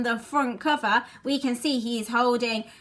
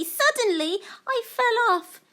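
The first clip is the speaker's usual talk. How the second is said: high, building "suddenly"; dramatic reveal; 12 semitones higher, 4 dB louder than usual. Acted. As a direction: land the punchline with a rise. Climax of Claire's confession.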